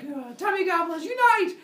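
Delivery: high, loud superhero rally; mock battle cry. Zeus rallies his brothers and sisters, hammed-up battle cry.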